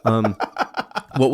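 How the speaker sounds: chewing while talking; mouth full. Real, not acted. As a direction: speak around a mouthful. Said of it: "when I have a cookie in my mouth".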